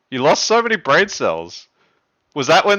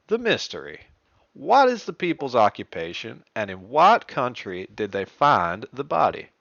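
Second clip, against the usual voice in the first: put-on Southern Texas accent. Host rereading the riddle to players in a Southern Texas accent. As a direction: read it out in a Southern American accent. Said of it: "a Southern Texas accent".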